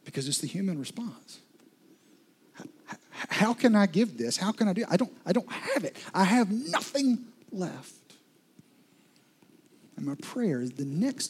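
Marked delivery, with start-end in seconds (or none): 2.6-7.9 widow's despair. Retold or imitated. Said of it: "react just like the widow did".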